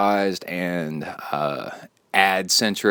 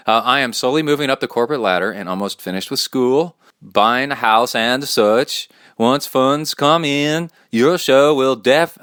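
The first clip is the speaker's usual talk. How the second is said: light mock Swedish accent, a bit higher; reading a fan email in a light Swedish accent; 4 semitones higher, 4 dB louder than usual. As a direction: slip into a playful Swedish accent while reading. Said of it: "I break into Swedish accent every once in a while".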